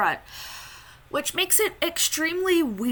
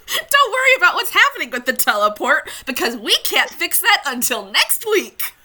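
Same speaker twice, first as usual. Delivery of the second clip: fast, high, louder laughing rerun; rewind voice; 4 semitones higher, 5 dB louder than usual. Pretend. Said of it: "we have a little rewind voice".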